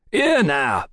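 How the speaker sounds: mild cry. Acted. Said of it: "cried the barman".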